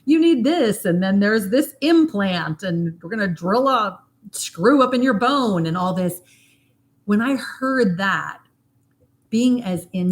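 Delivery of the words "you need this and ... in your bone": dentist's voice. Retold or imitated. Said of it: "Didn't expect my dentist to say".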